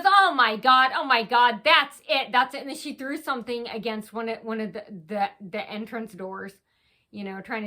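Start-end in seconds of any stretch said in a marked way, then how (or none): 0.0-2.6 imitating an angry outburst. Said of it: "She goes".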